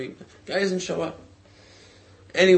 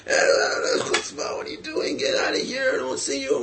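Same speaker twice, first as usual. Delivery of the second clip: retold angry yelling; 11 semitones higher than usual. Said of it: "he starts screaming at her and cursing her".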